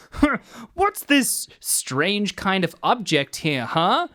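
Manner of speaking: slow, wide-eyed newborn wonder; like a just-hatched chick; naive Albert voice. Retold or imitated. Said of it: "plays him as if he's just hatched".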